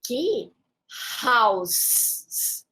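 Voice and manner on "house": house ending in a hissed S, never a Z; final S house. Shown as a demonstration. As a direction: stretch out the last S of house. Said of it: "o som final aqui é S". (house terminando em S, não em Z)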